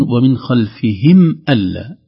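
خلفهم with a clear sukun on the mim; slow, loud, every letter placed; careful recitation. Shown as a demonstration. Teacher recites ومن خلفهم slowly. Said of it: "demo reading".

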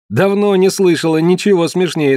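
high mocking amusement. Girl to Dikar, high mocking voice. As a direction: scoff at his question.

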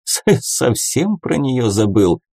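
halting stammered start to "совсем"; stammering. A narrator's reading. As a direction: stutter on the с of "совсем". Brother Yur stammers on.

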